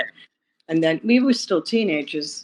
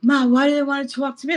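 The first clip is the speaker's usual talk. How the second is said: put-on high, frightened young voice asking mother; a scared kid pleading with Ma; imitating her thirteen-year-old self, high and frightened; scared child; 9 semitones higher, 5 dB louder than usual. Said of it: "I was scared".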